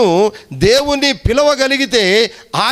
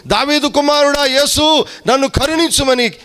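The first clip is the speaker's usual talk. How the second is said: imitated crying out; 6 semitones higher than usual. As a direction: plead as if calling out to Jesus, high-pitched. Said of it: "గట్టిగా కేకలు వేస్తూ ఉన్నాడు". (గట్టిగా కేక వేస్తున్నట్టు అనుకరణ)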